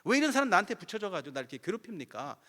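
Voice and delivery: high, loud, wailing plea to God; tearful complaint. Retold or imitated. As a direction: re-enact crying out in the prayer room, half-performed. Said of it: "울며 불며 나 혼자 그냥 하소연하는". (높고 큰 소리로 울부짖듯 하소연)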